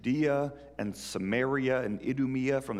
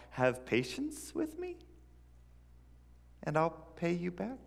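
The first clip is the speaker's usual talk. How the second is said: pleading servant; 5 semitones higher, 4 dB quieter than usual. Acted. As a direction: beg the boss like your life depends on it. Servant begs boss for time.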